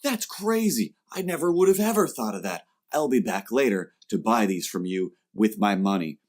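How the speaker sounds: a lightly voiced eager fan; mock-excited fan who won't return; gushing fan.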